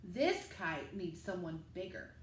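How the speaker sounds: a hint of a big grown-up explaining; dad's voice. Dad explains the kite.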